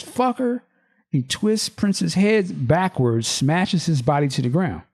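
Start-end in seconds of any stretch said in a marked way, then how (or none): 0.0-0.6 enraged. Acted. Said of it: "enraged, says".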